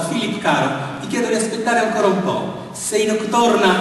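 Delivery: shaken cry. A narrator's reading. Annie begging Philip to wait, shaken and crying out. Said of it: "gridò lei alquanto scossa".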